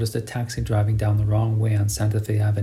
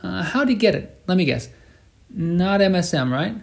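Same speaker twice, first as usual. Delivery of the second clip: put-on sing-song northern accent; 8 semitones higher than usual. A narrator's reading. Cabbie explaining the retraining, northern Argentine lilt. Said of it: "in the sing-song accent of the northern provinces".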